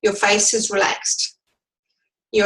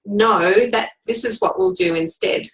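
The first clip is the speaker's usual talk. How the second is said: quiet and firm; 3 semitones higher than usual. Shown as a demonstration. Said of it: "quietly and firmly say".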